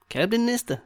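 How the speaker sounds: high-pitched quick call-out; put-on assistant voice. Café assistant calling over the next in line, high put-on voice. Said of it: "Maybe not in that voice".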